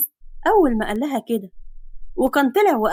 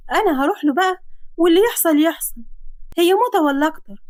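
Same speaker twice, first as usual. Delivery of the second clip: put-on girl's voice steeling herself; resolute heroine; 5 semitones higher than usual. Girl deciding to face him, nervous resolve. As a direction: talk yourself into courage.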